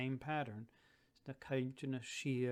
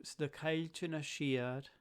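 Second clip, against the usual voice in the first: "shiad" said as shee-ad with the stress on the I; 3 semitones higher than usual. Shown as a demonstration. Teacher showing students where the stress falls, on the I of "shiad". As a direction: lean on the I in "shiad". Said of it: "be careful that the I gets the stress".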